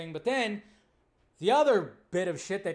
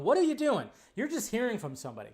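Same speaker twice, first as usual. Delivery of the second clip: higher, louder, exasperated jab; exasperated scolding; 5 semitones higher, 3 dB louder than usual. Retold or imitated. Vlogger scolding fans who spread rumours, exasperated. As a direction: scold fans repeating spoilers. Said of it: "And I'm going".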